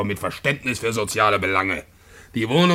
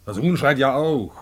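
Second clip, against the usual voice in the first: louder, refusing to be hushed; defiant louder talk in his own room; loud defiance; 3 semitones higher, 3 dB louder than usual. Acted. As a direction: raise the voice on purpose. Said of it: "Nicht so laut, Paul".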